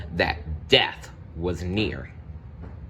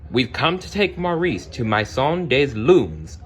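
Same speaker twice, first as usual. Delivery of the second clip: announcing officially; 5 semitones higher than usual. Acted. Asylum director announces arrival.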